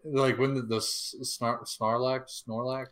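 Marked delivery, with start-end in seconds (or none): 1.2-2.9 unsure attempts at "Snarlack, Snorlack"; mispronounced. Real, not acted. Fan groping for the creature's name, mispronouncing it as "Snorlack". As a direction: stumble into "Snarlack", then "Snorlack". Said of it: "no, Sarlacc. Very close".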